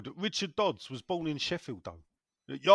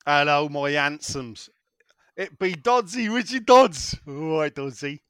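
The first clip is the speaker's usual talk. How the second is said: loud, hearty mock West Country accent; rolling West Country burr, drawn-out greeting; 8 dB louder than usual. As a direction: play a hammed-up West Country yokel hailing his mates. Reading listener's message in West Country voice.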